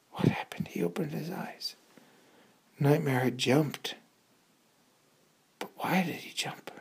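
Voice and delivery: soft whispered wonder; hushed suspense. A narrator's reading. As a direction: whisper the mystery. Suspense whisper after jump.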